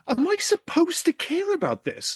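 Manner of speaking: high, slow, put-on incredulous voice; a drawn-out sarcastic question. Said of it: "I was just sitting there watching it going".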